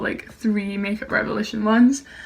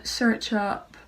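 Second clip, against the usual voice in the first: slow command to assistant; much slower than usual. Real, not acted.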